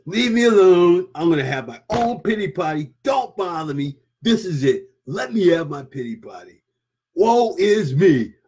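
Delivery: mock pity-party moaning; self-pitying whine. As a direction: ham up the wallowing. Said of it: "Feeling sorry for yourself".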